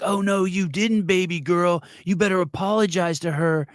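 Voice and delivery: mock-outraged clapback, pitched high; exaggerated sassy scolding; AOC getting crazy. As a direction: draw out the indignation in a hammed-up high voice. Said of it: "So A O C gets crazy".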